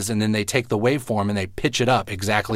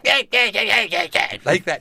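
deep chesty Cartman voice; 11 semitones higher than usual. Shown as a demonstration. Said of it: "puffing my chest out and really going".

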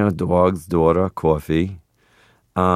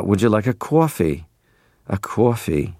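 put-on New York accent. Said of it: "hearing somebody say".

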